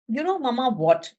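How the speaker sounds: silly sailor. Acted. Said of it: "He said".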